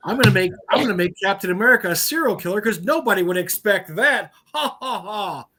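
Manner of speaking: fast, smug, self-satisfied mock; smug hack writer. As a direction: sneer it as a cocky writer. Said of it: "mocking hack comic writer".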